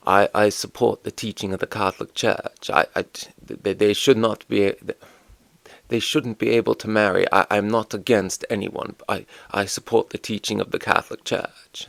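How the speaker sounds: a halting, hesitant imitation of a stiff politician; bad Rees-Mogg impression. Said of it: "And that's Rees-Mogg. Badly".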